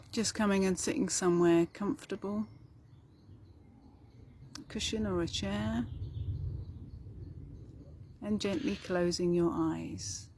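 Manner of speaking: calm, even meditation delivery with long pauses; guided meditation. Acted. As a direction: gently guide listeners inward, leaving space between phrases.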